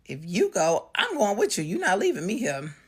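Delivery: loud, high, urgent protest; insistent protest. Retold or imitated. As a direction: imitate a son insisting he won't be left. Son insists on going along.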